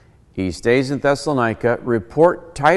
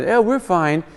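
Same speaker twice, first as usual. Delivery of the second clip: higher, quick airy reassurance; lightly voiced kids; 6 semitones higher than usual. Kids arriving in Narnia, lightly imitated higher voice. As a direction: brush it off like a child.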